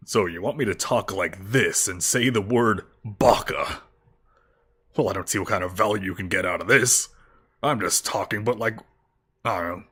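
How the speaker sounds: a cowboy trying hard to sound tough. Pretend. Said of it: "I'm talking like a cowboy who's trying really hard to sound tough".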